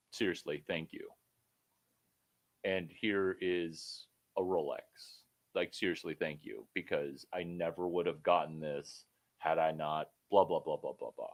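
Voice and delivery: soft, heartfelt thanks; quietly earnest, really meaning it; sincere gratitude. Retold or imitated. Friend giving deep thanks with a Rolex, soft sincere voice. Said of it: "the other end of the gratitude".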